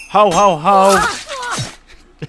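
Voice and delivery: hammed-up Santa chuckle; Santa laugh. Santa character in game.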